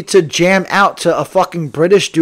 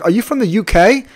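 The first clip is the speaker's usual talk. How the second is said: lightly voiced curious passenger, pitched higher; passenger imitation; 5 semitones higher than usual. Passenger asks the driver after pleasantries, in a lightly imitated higher voice. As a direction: ask it in a higher, lightly put-on voice. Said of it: "passenger today asked me".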